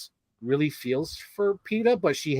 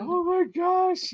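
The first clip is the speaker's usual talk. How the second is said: laughing delight; 14 semitones higher, much slower than usual. Real, not acted. Delighted reaction to the spoof.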